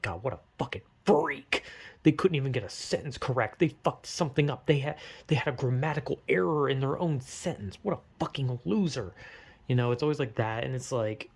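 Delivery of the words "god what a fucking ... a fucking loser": mock sneer. Imagined judge mocking him.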